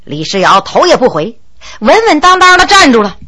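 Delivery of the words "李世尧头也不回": ordinary delivery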